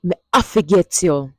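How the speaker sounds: Patois "Me I forget you" with stress on "I"; Jamaican Patois. Shown as a demonstration. Teacher demonstrating the bonus line for all the lovers. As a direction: say it with a lover's promise. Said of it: "Hear that?".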